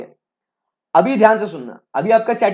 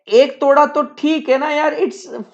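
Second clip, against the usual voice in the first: easygoing dad; 3 semitones higher than usual. Retold or imitated. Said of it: "तो पापा बोलते हैं".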